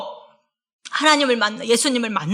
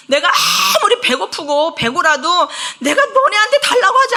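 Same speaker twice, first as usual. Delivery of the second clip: God's rebuke; 3 semitones higher, 4 dB louder than usual. Acted. Preacher paraphrases God, scolding people.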